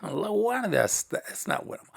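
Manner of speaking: man regretting his pitch during the sermon, softly; inner panic. Retold or imitated. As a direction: mutter your regret half to yourself. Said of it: "the whole time I'm thinking".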